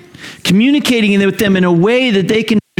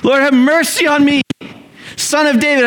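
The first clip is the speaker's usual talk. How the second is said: imitated yell, pitched way up; acted yelling; 10 semitones higher than usual. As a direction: call out high over a crowd. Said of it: "they're yelling, and they're like".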